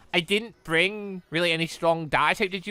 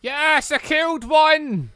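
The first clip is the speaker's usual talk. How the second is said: higher, slowed happy cheer; triumphant cheer; 7 semitones higher, much slower than usual. Real, not acted. Player finally defeating one enemy, triumphant cheer. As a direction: celebrate the kill.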